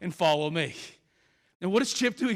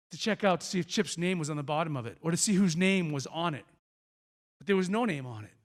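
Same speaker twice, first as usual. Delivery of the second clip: ordinary talk, nothing marked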